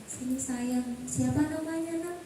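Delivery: put-on soft, gentle call to a crying child; tender coaxing. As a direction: coax the boy softly. Membujuk anak yang menangis. (bujukan lembut kepada anak)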